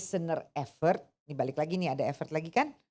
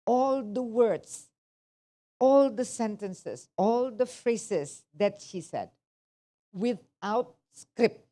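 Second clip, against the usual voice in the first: ALL stressed each time, slow and a bit louder; slow emphatic stress; 3 dB louder, slower than usual. Real, not acted. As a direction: spell out the list slowly, hitting "all". Teacher stressing each point to students.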